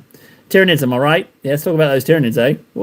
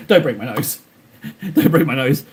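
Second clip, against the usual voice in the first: laughing plea. Pretend. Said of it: "laughing plea to Frankie".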